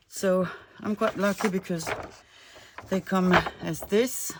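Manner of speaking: breathless after climbing stairs; puffing between words, winded; out of breath. Real, not acted. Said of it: "Sorry, I'm out of breath".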